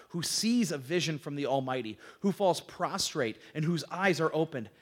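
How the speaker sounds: measured, lightly solemn Bible reading; scripture reading. Acted. Teacher reads Balaam's oracle to the class, solemn reading.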